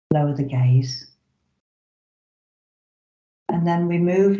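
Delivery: unhurried guiding voice with long pauses; measured meditation-teacher delivery, leaving space between instructions; guided meditation. Real, not acted. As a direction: gently lead them into the practice, phrase by phrase.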